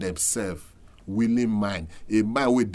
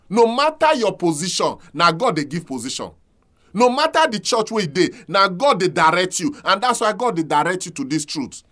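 impassioned preaching; 6 semitones higher, 4 dB louder than usual. Real, not acted. Preaching rises to full force.

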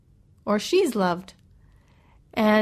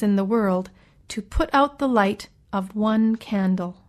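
poem reading. Acted. Reads a short poem.

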